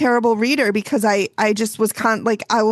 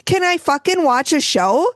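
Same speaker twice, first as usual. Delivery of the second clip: higher, exasperated plea; playfully fed-up outburst; mock exasperation; 5 semitones higher than usual. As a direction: snap back at your own nagging brain. Acted retort to nagging brain.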